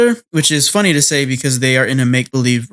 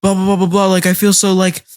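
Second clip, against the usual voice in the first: higher-pitched imitation of a panicky inner monologue; lightly acted fluster, raised pitch; mock flustered; 5 semitones higher than usual. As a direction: play someone baffled by their own feelings. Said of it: "he gets all flustered".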